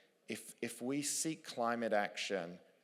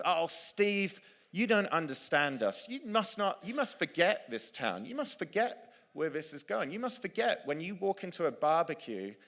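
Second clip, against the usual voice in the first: high, loud protesting local voice; mocking townsman; 8 semitones higher, 4 dB louder than usual. A local man at the town hall objecting to Steve, high and loud. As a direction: play the angry local pleading with Steve.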